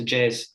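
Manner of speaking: Jazz as one short syllable, first syllable dropped; shortened name. Shown as a demonstration. Panelist showing how people shorten the name, clipped to Jazz. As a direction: cut the name down to just "Jazz". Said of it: "or even shorter, just goes".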